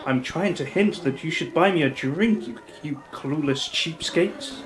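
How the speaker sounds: mock translation voice. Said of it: "Are we talking about".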